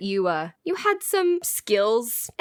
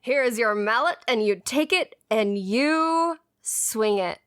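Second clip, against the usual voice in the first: lightly voiced fairground showman; touch of carnival hawker; carnival booth barker. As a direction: invite them up like a booth operator, a hint of patter. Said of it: "The man with the pinstripes and the suspenders who is running this little booth".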